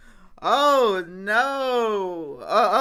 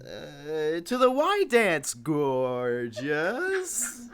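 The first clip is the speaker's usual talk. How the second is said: slack jaw voice; 5 semitones lower, much slower than usual. Retold or imitated. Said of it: "I can't help it if I sound dopey".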